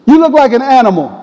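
high, mock-stern fatherly reproach; scolding dad. Dad phoning his long-haired son, scolding. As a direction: play an exasperated father telling off his boy.

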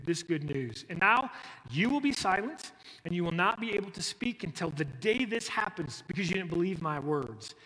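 a touch of a boastful angel; lightly swaggering Gabriel; showing off. Acted. Gabriel showing off to Zechariah, mild swagger. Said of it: "He's showing off".

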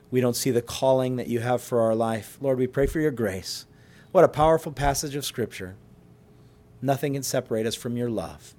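earnest pastoral prayer, steady and sincere; pastor's closing prayer to God, earnest. Acted. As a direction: pray over the congregation as you close.

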